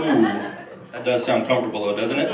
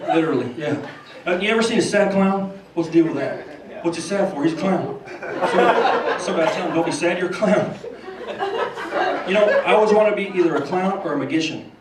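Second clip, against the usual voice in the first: George Bush impression; 3 semitones higher than usual. Bush rambles about clowns to Johnny, lightly laughing. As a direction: chuckle through it like Bush. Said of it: "George Bush and Johnny Carson".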